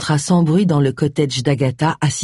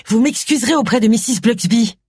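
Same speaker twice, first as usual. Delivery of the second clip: stiffly; 6 semitones higher than usual. Acted. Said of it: "reprit-elle avec raideur".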